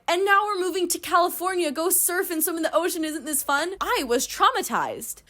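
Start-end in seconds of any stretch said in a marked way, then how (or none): 0.1-3.7 high, bright-sing-song parent voice pitched well up; sarcastic imitation of a cheerful parent; mocking cheery parent. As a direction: chirp it like a clueless upbeat dad. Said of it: "then be like".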